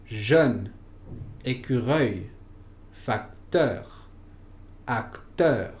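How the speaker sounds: "jeune, écureuil, facteur, acteur." with rounded French eu; French eu sound. Shown as a demonstration. Teacher modeling the French eu sound for students, clear and careful. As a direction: model each word with lips rounded, French style. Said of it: "Por ejemplo".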